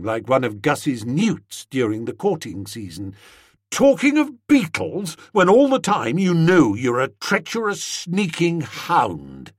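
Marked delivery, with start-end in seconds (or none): 3.7-9.5 angry accusation. Acted. Tuppy accusing Bertie angrily.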